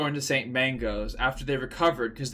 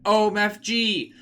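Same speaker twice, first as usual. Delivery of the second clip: high, loud pained scream, last words slow; 8 semitones higher, 4 dB louder, slower than usual. A narrator's reading. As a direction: cry out as the scar burns. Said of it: "He started to scream".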